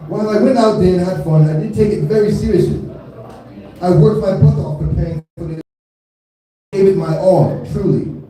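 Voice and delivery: put-on rough stab at an Australian accent; amateur Australian accent impression; attempted Australian accent. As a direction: read it out in a lightly faked Australian accent. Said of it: "try my best to do her accent".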